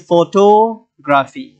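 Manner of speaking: ফটোগ্রাফি with টো stretched before গ্রাফি; teacher's demonstration of ফটোগ্রাফি, weight on টো; stress on টো. Shown as a demonstration. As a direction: lean on টো in ফটোগ্রাফি. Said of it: "এখানে টোগ্রাফি".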